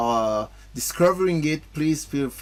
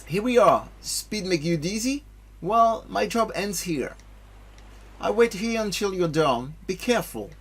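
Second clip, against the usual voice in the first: lightly voiced young heroes, a bit higher; game dialogue voices; 6 semitones higher than usual. Streamer reading game dialogue to his chat, lightly voiced. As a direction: read the cutscene lines with a little character.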